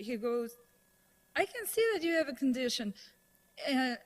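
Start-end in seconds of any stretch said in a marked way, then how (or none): 1.3-2.9 higher, quick, mildly irked comeback; acted-out annoyed retort, only a touch of anger; mildly angry retort. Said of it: "That makes him a bit angry".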